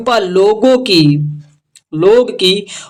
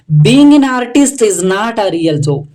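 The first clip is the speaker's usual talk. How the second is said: very slow, word by word English read; much slower than usual. Shown as a demonstration. Teacher reading the English sentence slowly. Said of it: "teacher reads English line".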